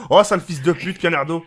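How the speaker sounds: loud playful insult; talking too loud. Real, not acted. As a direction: blurt it out loudly at the mic. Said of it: "J'ai jamais entendu quelqu'un parler aussi fort". (parle trop fort)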